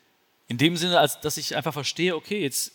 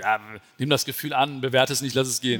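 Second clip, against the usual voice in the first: misunderstood echo; 4 semitones lower than usual. Retold or imitated. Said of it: "ich hab es nicht verstanden".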